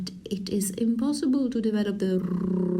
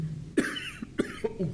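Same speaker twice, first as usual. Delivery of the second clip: cough on an inward breath; 3 semitones higher, 9 dB quieter than usual. Shown as a demonstration. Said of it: "painful at the back of the throat".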